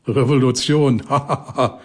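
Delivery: a short, bitter, mocking laugh. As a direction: spit out a sour, scornful laugh. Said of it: "Bocks Lachen klang bitterböse".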